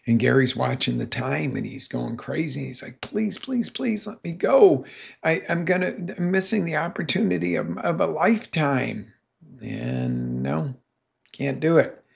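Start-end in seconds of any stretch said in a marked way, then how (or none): 3.0-9.1 higher, desperate begging; a hint of frantic begging; pleading. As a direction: plead with the cop to let him go. Gary begging cop to leave.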